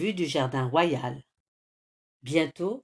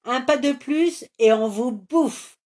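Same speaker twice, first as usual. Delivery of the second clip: louder, higher troll threat; roaring troll; 6 semitones higher, 7 dB louder than usual. A narrator's reading. Troll blocks the heroes, roaring threat. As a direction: roar the threat. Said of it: "rugit le fessu".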